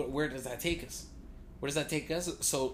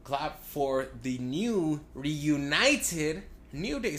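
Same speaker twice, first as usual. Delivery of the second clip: promo voice; 3 semitones higher, 4 dB louder, much slower than usual. Retold or imitated. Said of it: "he's like".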